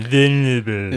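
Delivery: badly faked Asian accent on "Vulnerable"; failed Asian accent. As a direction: attempt an Asian accent, ending on a rise. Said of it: "I can't do that in an Asian accent".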